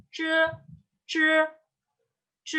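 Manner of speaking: c as a retroflex "zh" sound, no puff; curled-tongue c. Shown as a demonstration. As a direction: curl the tongue up to the palate for c. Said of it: "Lidahnya ditekuk".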